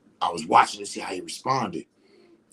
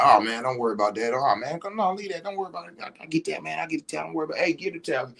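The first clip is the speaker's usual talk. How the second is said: easygoing reassurance; 5 semitones higher, faster than usual. Retold or imitated. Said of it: "you be like".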